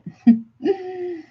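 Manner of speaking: bright high giggle; high laugh. Real, not acted. Reader giggles at viewer Miss Infinite's name. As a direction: let a high laugh burst out.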